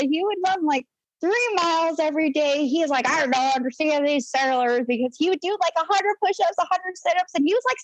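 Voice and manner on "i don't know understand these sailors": badly faked old-chief voice; lightly voiced salty guy, a bit higher. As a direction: do a half-hearted old sailor. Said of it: "I just can't do a guy voice".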